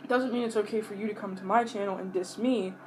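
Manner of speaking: normal talking voice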